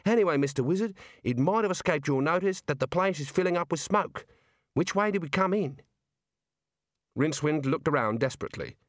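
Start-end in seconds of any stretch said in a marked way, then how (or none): 0.1-5.8 put-on Australian girl voice. Neelet's lines in the story.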